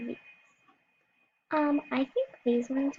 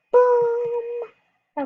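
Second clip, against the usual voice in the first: high loud boom, a bit less; 9 semitones higher, 6 dB louder than usual. Pretend. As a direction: shout the impact. Jumping off the mini board.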